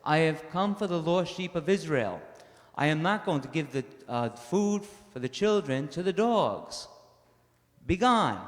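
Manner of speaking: Jesus rebuffing the foreign woman, stern and dismissive. Acted. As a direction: turn her away sternly. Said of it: "And Jesus says".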